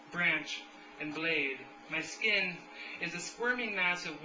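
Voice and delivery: measured, understated poem recital; deliberate delivery, lines settling downward at the ends; poetry reading. Acted. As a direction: read the verse phrase by phrase, with pauses. Reads a second poem.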